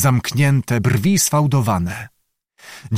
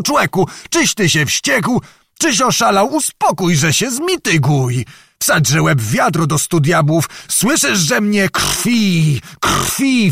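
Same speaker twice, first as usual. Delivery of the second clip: frantic shouting; 6 semitones higher than usual. A narrator's reading. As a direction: shout in panic at a madman. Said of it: "krzyczał". (przerażony krzyk)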